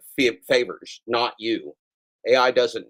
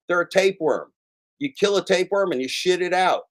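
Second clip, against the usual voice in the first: high-pitched, exasperated rant; worked-up yelling; 6 semitones higher than usual. Real, not acted. Dad ranting to his audience about the gig economy, worked-up yelling. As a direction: yell it like a fed-up dad. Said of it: "I've been screaming at you".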